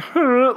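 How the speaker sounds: short high goading "huh?"; imitated prodding little noise; egging-on "huh". Professor egging her colleague on, a goading huh. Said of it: "like, egging her on".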